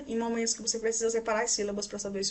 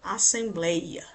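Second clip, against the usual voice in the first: slow demo; much slower than usual. Shown as a demonstration. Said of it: "gostamos muito desses exemplos".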